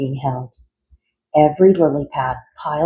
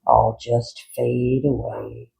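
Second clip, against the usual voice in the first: sighing; 3 semitones lower than usual. Acted. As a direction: sigh it out in hopeless gloom. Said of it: "sighed Frankenfrog".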